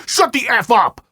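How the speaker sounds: high, loud snapped command; imitating a raging dad; mock furious shout at the narrator; retold angry yell. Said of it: "he responded with".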